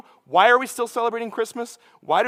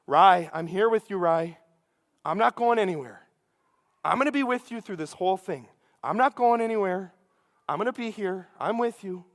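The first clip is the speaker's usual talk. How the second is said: dad reassuring. Retold or imitated. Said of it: "he kept repeating this".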